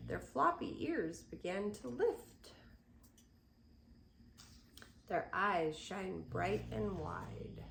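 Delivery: put-on gentle rhythmic read-aloud for children; storybook reading. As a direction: read the rhyme to little ones. Reads picture book aloud.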